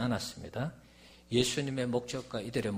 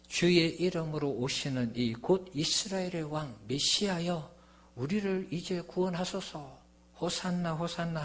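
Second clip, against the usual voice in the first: high-pitched hail at ordinary volume; imitated crowd acclamation; 6 semitones higher than usual. Preacher voicing the crowd at Jesus' entry, imploring acclamation. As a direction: hail the arriving king as the crowd. Voices crowd hailing the Messiah.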